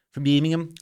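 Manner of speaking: light Birmingham accent attempt; mock Brummie accent. Shown as a demonstration. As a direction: slip briefly into amateur Brummie. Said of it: "My, my U K accents ain't all that".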